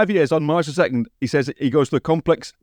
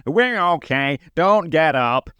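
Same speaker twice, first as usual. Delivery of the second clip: passive-aggressive sarcasm; much slower than usual. Retold or imitated. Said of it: "Willie Tanner passive-aggressive sarcasm".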